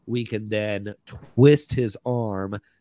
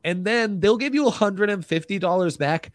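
ad read; 3 semitones higher than usual. Acted.

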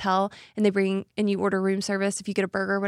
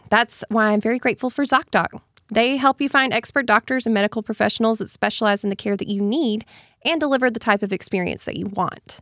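steady sponsor pitch; ad read. Acted. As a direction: read the sponsor copy smoothly.

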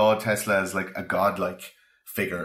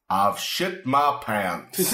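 laughing announcement; much slower than usual. Retold or imitated. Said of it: "Mark Twain announced".

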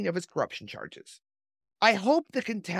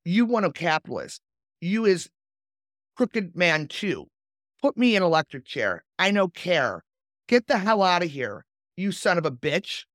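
condemned man reading. Acted. Condemned man cursing the chaplain, a hint of defiance. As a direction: read the condemned man's words with light defiance, no accent. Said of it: "I'm not gonna do an Italian accent, but I'm just gonna read it as it was written".

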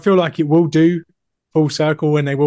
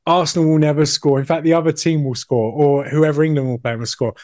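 put-on kid voice; 3 dB louder than usual. Kid scolding mum during match.

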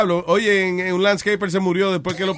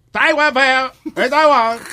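slow mocking announcement; 8 semitones higher, 5 dB louder, much slower than usual. Mock-announcing the news punchline.

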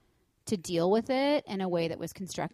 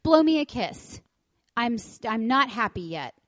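higher and louder mock child; bossy toddler; 5 semitones higher, 6 dB louder than usual. Mom voicing her daughter in the car, bossy. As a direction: play the pouting kid ordering mom. Daughter voiced, mixed demands.

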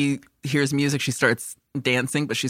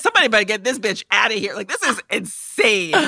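exasperated; 5 semitones higher than usual. Retold or imitated. Exasperated aside about grandma.

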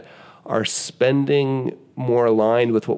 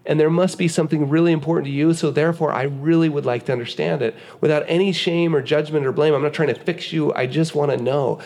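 tender reassurance; 5 semitones higher than usual. Pretend. Husband to wife about her car, tenderly reassuring. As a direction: reassure your wife with no judgment. Voicing calm talk with wife.

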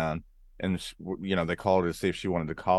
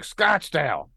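crowd shout-back; 6 semitones higher, 3 dB louder, slower than usual. Retold or imitated. Audience shouting back their town.

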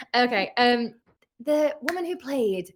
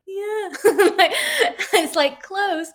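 high-pitched, laughing, hesitant yes; mock polite approval, pitched well up; unconvinced politeness; 12 semitones higher, 7 dB louder, much slower than usual. Brit humouring friends who try the accent, unconvinced politeness.

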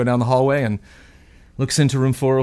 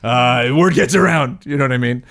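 bad fake British accent. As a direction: play a pompous Monopoly tycoon in a bad British accent. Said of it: "weird, bad, fake British accent".

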